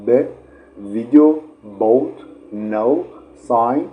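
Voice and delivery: loud, buzzing voiced examples; voiced consonant demo. Shown as a demonstration. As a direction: punch the voiced sounds in ویدیو and بوت.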